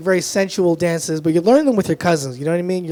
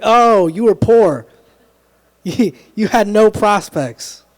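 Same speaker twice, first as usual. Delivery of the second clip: mock pity; 3 semitones higher, 4 dB louder, much slower than usual. Mock pity for master's students.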